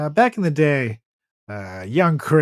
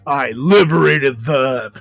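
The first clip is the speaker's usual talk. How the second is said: smug wrestler; 4 dB louder, slower than usual. Acted. Carlitos the wrestler answers.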